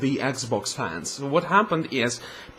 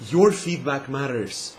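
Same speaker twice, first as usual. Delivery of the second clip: mock sincerity; 2 semitones lower than usual. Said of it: "And then, like".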